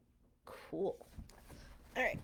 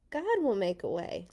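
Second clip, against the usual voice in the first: calm Moses; 4 dB louder than usual. Acted. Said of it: "Moses said".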